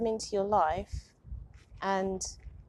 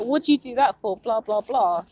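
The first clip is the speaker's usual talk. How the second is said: mock angry mom; 7 dB louder than usual. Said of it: "she would just get really angry".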